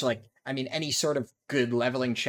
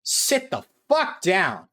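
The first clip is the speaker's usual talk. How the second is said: slow, loud finishing taunt; gloating; 4 semitones higher, 5 dB louder, slower than usual. Real, not acted. Gamer taunting the defeated ganker, slow and loud. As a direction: drag out the put-down.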